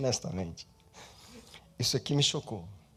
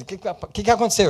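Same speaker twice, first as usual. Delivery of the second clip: stammering question; 6 semitones higher, 8 dB louder, faster than usual. Acted. Asks the silent person what happened.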